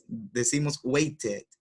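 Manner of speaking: waited said slowly with a clear "id" ending; waited with extra syllable. Shown as a demonstration. Teacher showing the added syllable in waited. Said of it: "For example, wait".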